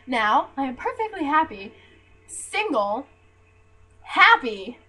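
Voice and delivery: loud, high, punched declarations; emphatic exultation. Real, not acted. Telling viewers the joys of single life, loud exultation. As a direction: belt out each freedom triumphantly.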